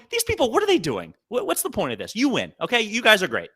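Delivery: hammed-up disbelief at the cup stackers; mock exasperation. Watching the cup snake video, a mock exasperated groan. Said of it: "I was going".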